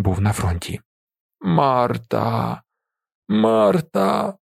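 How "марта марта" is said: high crying call of a name; unnaturally high sob. A narrator's reading. Innkeeper crying for his dead wife, high. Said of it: "схлипує він неприродно високим голосом".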